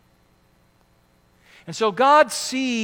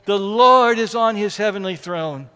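louder, steady, defiant declaration; firm and defiant; 6 dB louder than usual. Retold or imitated. Psalmist answering the scoffing neighbor, firm and defiant. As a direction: state it like an unshakable fact. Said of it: "firmly and defiantly".

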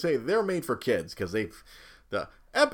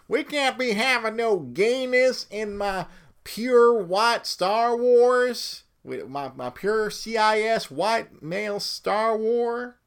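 mock outraged fan, building from near normal to much higher and louder, slow and drawn out at the end; mock bigoted fan; 10 semitones higher, 6 dB louder, slower than usual. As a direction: ham up a pearl-clutching fan, climbing into a high, loud, stretched-out whine. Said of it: "the anti-female empowerment. It's like".

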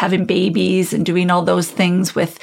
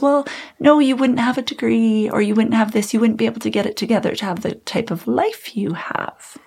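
raised-pitch mock doctor, listing reasons; dismissive doctor; 5 semitones higher than usual. Doctor listing why it can't be bipolar, high mock dismissal. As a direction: brush the patient off in a higher imitated voice. Acted doctors brushing her off.

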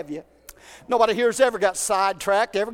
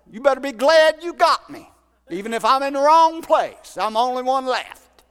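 louder, higher, whiny boast of being the last; self-pitying Elijah; 3 semitones higher, 6 dB louder than usual. Retold or imitated. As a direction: play Elijah puffed up and sorry for himself. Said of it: "Isn't that what Elijah said?".

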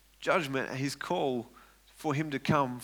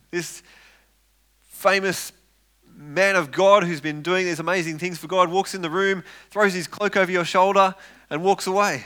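rising higher and louder as the scene grows; building excitement; 4 semitones higher, 5 dB louder than usual. Real, not acted. Preacher to congregation, picturing the call, building louder. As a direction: paint the moment with mounting energy.

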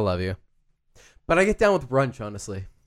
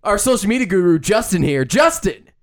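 mock ad read.

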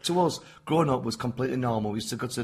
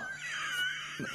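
shouted laugh; 10 dB quieter than usual. Retold or imitated. Motorbike memory, shout heard.

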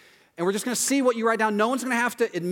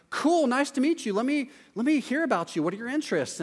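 higher, eager welcome; friendly greeting; 6 semitones higher than usual. Retold or imitated. Safe friend meeting your other friends, higher and eager. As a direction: greet the new group warmly and keen. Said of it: "is gonna be like".

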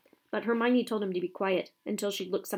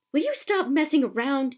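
sharp raised yell at the team; loud angry shout, louder and higher; 5 semitones higher, 7 dB louder than usual. A narrator's reading. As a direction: bellow it across the pitch in anger. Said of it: "he yelled".

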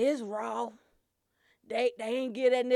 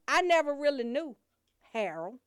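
mock pastor. Shown as a demonstration. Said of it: "They do this one".

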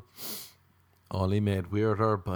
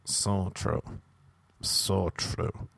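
slow, softly fading mock agreement; agreeing friend; 2 semitones lower, 4 dB quieter, much slower than usual. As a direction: drag out each agreement, getting softer. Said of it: "our friend was like".

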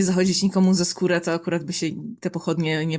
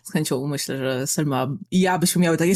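usual speaking voice

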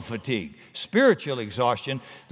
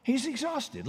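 He's exhausted said softer, falling away; drained, quieter echo; weary softer repeat; 10 semitones higher, 6 dB quieter than usual. Shown as a demonstration. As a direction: let the second one sink tiredly. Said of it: "here's the final excuse".

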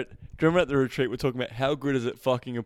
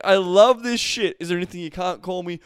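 mock turned-on girl; 3 semitones higher, 8 dB louder than usual. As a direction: belt it like she loves it. Girl's voice, quoted.

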